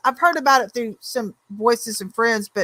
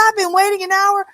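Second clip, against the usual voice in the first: imitating a fed-up friend; 9 semitones higher than usual. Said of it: "she goes".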